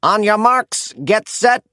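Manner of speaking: loud, rising start call, ending high on go; announcer's starting call. A narrator's reading. Announcer to the racers, a loud building call. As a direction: count them off to the start. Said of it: "cried the announcer".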